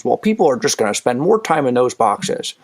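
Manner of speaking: lightly voiced grumbling old man. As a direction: mutter it like a skeptical old-timer. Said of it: "that's my old man voice".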